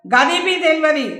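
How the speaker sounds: gurkha at the gate in Telangana dialect; blunt Telangana gatekeeper's speech, lightly voiced. A narrator's reading. Gurkha brushing off visitors, in Telangana dialect. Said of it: "నిర్వికారంగా చెప్పాడు".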